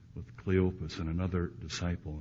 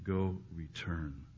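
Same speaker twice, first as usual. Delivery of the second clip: gentle command; 3 semitones lower, 6 dB quieter, much slower than usual. Retold or imitated. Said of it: "in such perfect love".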